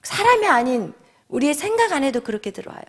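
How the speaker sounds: ordinary delivery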